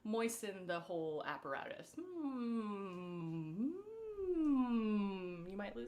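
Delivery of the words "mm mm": humming. Shown as a demonstration. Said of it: "humming and chewing".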